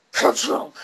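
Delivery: comic crunching sound effect; imitated explosion thunk. Showing how the trolley blows up, imitated kerchunk. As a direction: voice the crash as a spoken noise. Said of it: "It goes like that".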